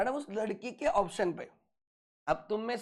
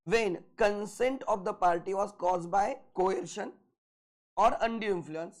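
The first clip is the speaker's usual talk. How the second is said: very slow, word by word dictation; dictating notes; much slower than usual. Shown as a demonstration. Teacher to class, dictating notes very slowly. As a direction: spell it out slowly so they can write.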